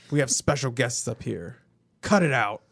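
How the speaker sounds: stern announcer imitation, ending forcefully; mock aggressive announcer. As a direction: act out an announcer telling off the room. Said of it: "he's, like, very aggressive".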